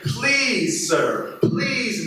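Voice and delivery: high, begging cries of please; a servant on his knees begging the master; pleading. Acted. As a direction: beg the king for mercy. Servant begging king for time.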